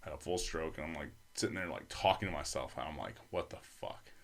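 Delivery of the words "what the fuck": breathy hushed what-the-fuck; whispered disbelief. Retold or imitated. Man whispering to himself on the floor, stunned and confused. Alone, realizing something is wrong.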